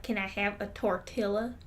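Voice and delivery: imitating a Southerner mispronouncing "tortilla"; lightly put-on Texan twang; mock Southern customer ordering; Southern-accented Spanish. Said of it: "the people with accents when they try to speak Spanish".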